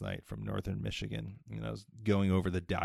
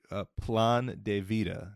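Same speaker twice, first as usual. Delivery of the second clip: plan de vida with a Spanish accent; 4 dB louder, slower than usual. Shown as a demonstration. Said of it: "you could comment on my Spanish accent there".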